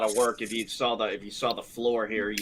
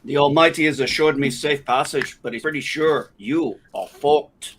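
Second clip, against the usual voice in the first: louder, grand, slowing on fucked; mock pronouncement; 3 semitones higher, 6 dB louder than usual. Joking to the group, a booming mock decree.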